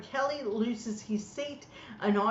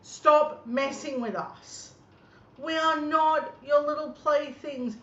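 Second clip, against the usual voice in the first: louder and higher, slow and indignant; angry rant; 6 semitones higher, 4 dB louder, slower than usual. Real, not acted. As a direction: scold him, biting off each word. Ranting at Clive Palmer.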